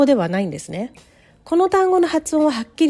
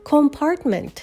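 "Compartment" said com-PART-ment, higher; stress on second syllable; 4 semitones higher, much slower than usual. Shown as a demonstration. Teacher modelling the word compartment, second-syllable stress. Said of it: "二音節目にストレスが置かれます".

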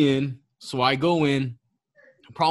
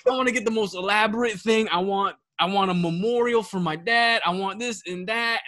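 exaggerated Tom; 5 semitones higher than usual. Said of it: "in my brain, that's how it came out".

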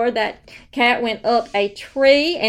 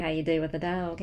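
put-on baby talk; 5 semitones lower, 7 dB quieter, faster than usual. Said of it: "I baby talking to him".

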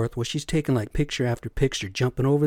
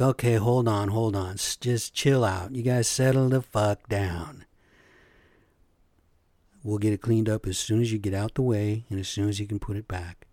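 calming them down. Retold or imitated. Calming two men yelling.

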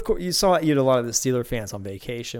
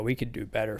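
quiet; 7 dB quieter than usual. Real, not acted. Vlogger to viewers about Toyotas, said softly. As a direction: murmur it under your breath. Repeats the line, quiet first.

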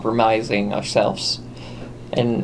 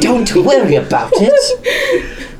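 put-on southern accent; 13 semitones higher, 4 dB louder, slower than usual. Echoing the line, laughing.

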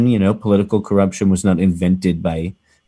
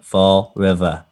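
Boston accent; slower than usual. Shown as a demonstration. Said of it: "fun to say in a Boston accent".

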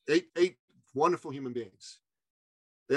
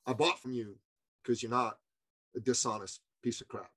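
lightly voiced client, lower and softer; a hint of a low-voiced, blunt customer; imitating blunt client; 4 semitones lower, 7 dB quieter than usual. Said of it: "that's how he spoke".

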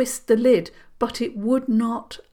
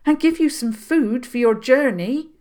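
firm; 6 semitones higher, 6 dB louder than usual. Acted. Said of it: "Granny Cavan said firmly".

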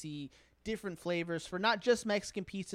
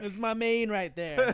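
slow, laughing through words; 2 semitones higher, 6 dB louder than usual. Real, not acted. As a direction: chuckle the words out. Laughing over food banter.

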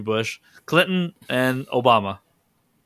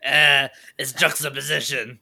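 mock Mexican-accented punchline. Shown as a demonstration. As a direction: deliver it with a put-on Mexican accent. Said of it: "That's a Mexican accent".

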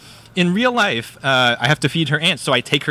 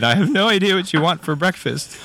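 higher, mildly mock-despairing plea; sad; 5 semitones higher than usual. Dad at breakfast with his son, mock sad. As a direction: play the defeated parent, lightly. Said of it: "just sad".

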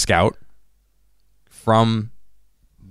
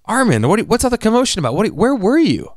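mock surprised Flock; 11 semitones higher, 4 dB louder than usual. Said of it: "he goes".

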